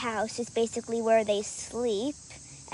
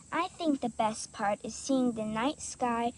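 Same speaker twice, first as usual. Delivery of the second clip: dreamy. Acted. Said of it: "said Camille dreamfully".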